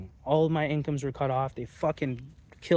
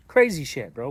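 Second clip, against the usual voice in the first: loud exclamation; 6 dB louder than usual. Real, not acted. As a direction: burst it out, amazed at himself. Exclaims at his own turnaround.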